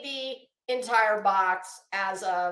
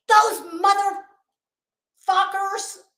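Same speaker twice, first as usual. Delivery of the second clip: slow, high, loud crying curse; outraged cry; 9 semitones higher, 3 dB louder, much slower than usual. Retold or imitated. Telling her husband about the cereal, an outraged, slow crying shout.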